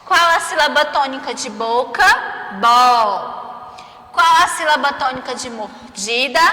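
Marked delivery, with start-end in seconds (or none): 2.6-4.1 BO as one long syllable; stressed syllable alone. Shown as a demonstration. Teacher answering for pupils, "Bo" drawn out. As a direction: hold "Bo" out firmly. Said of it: "como se ela fosse mais forte".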